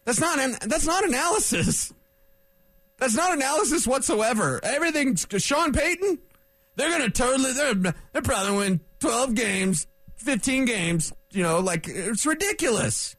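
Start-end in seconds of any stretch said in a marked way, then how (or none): 4.6-11.1 higher-pitched booster babble; mock fanboy hype. Host mimicking media hyping Sean Payton, mock fanboy hype. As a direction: parody breathless overpraise, starting high.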